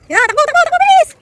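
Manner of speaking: high, loud cheering while running. Real, not acted. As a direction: shout encouragement on the move.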